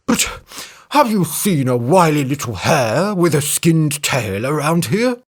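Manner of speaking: sweet-talking elephant, quick flattery; butter them up. A narrator's reading. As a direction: elephant flattering the women to find the hare.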